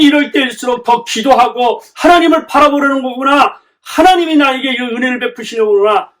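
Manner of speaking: high, forceful sermon delivery; impassioned preaching. Real, not acted. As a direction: drive the point home to the congregation. Preaches with raised voice. (목소리를 높인 열띤 설교)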